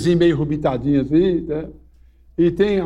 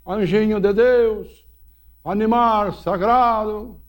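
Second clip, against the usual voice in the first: fala mansa com a mula; 6 semitones higher, slower than usual. Retold or imitated. Padre fala com a mula, lento.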